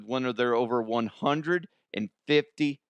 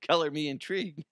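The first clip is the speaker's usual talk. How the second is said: intrigued; 4 semitones higher, faster than usual. Real, not acted.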